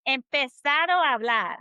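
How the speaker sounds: Empezado a hablar flowing with the A's merged; linked as in speech. Shown as a demonstration. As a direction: run Empezado a hablar together, no break before "ablar". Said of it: "when you're speaking it".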